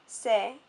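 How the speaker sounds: "c'est" with the vowel as a long A; first part of sévère, "c'est", with E turned to A; long A sound. Shown as a demonstration. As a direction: say "c'est" with an A as in "make". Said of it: "makes the E become more of an A sound".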